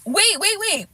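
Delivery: stunned, stopping the story; shocked. Real, not acted. Shocked by jail news.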